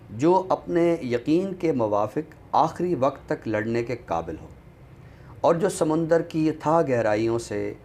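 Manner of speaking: reading a quote. Shown as a demonstration. Host reads a passage from the back flap to viewers, recital tone. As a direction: read the book's lines aloud with gentle weight. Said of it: "अगर मैं चंद जुमले जो इसकी back flap पे".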